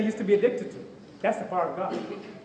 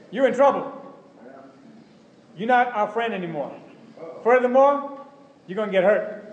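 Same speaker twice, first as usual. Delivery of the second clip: put-on challenging old friends; 2 semitones higher than usual. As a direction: confront him like a scornful old friend, pausing between jabs. Old friends confronting the convert.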